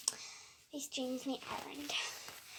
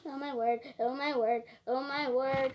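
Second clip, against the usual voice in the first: shocked gasp; 6 dB louder than usual. Real, not acted. Gasps at spider in cup.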